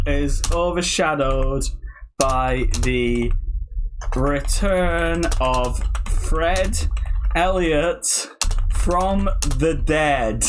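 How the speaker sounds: very drawn-out, halting phrases; dictating slowly. Real, not acted. Typing Fred Elliot's return, very slow dictation. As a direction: dictate each word as you type.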